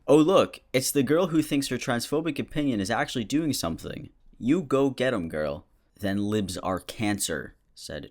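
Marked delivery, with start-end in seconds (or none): 0.1-5.7 high, mock-impressed reading; mocking cheer. Mocking the girl with the transphobic opinion, high and falsely impressed. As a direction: jeer with fake encouragement, pitched up. Reads a mocking online reply.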